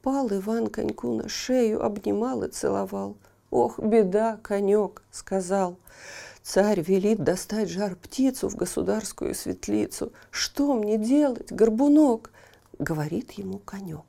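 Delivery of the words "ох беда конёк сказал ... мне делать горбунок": loud lament to his horse; woeful Ivan. Acted. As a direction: cry out your trouble. (Иван жалуется коньку)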